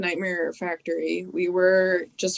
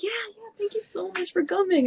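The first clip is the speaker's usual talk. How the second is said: higher, breathy whispered imitation of the boss; imitated whisper; 12 semitones higher, 5 dB quieter than usual. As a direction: whisper it back as the kindly boss. Voicing Tony's soft reply.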